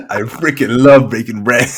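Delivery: slow, laughing mock quote; teasing echo drawn out through laughter; laughing mimicry. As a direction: parrot the line while cracking up. Mimicking co-host's line as snippet.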